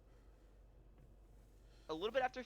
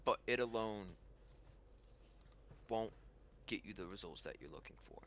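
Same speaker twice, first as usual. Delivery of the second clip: Pirate King; 3 semitones lower, 6 dB quieter than usual. Acted. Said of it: "And he says".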